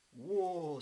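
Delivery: loud, high burst of excitement; startled by a bite on the line; excited whoa. Acted. Wibbly feels a fish bite, excited loud whoa.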